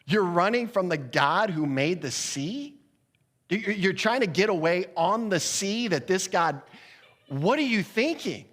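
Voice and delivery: high-pitched, acted disbelief; stretched-out, rising incredulity; incredulous. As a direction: demand an explanation in mock astonishment. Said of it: "they were simply incredulous".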